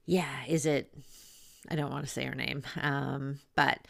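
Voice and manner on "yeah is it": hushed wondering whisper; tender whisper. Retold or imitated. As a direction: whisper it to the newborn. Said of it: "it's like".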